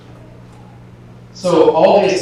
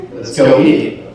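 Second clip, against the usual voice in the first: pushy, insistent, louder on each push; urgent inner urging; 5 dB louder than usual. Retold or imitated. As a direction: voice an impatient craving, building in volume. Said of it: "I'm getting this, like, urgency".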